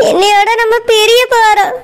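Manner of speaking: put-on a girl crying as she says they'll part; tearful. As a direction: speak through tears, voice catching. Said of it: "ஏன் இப்படி அழுதுகிட்டே இருக்க".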